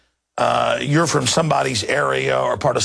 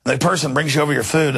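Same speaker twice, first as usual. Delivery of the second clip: normal talking voice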